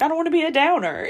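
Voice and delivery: mock self-doubt. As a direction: mimic her own anxious inner voice. Quoting her own inner worry.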